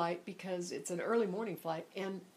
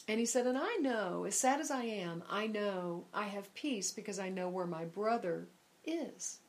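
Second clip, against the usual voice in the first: calm stranger; 4 dB quieter than usual. Retold or imitated. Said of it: "he was very calm".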